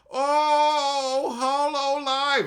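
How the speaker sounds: high, loud cutesy squeal; hammed-up high cute voice; mock anime girl.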